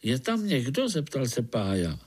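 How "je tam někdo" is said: calling out. Acted. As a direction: call into the dark ground. Spider calls into the molehill. (volání do díry)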